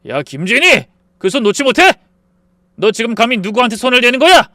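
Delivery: loud commanding yell; thunderous shout. A narrator's reading. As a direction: roar at the sister. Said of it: "발작하듯 소리쳤어요".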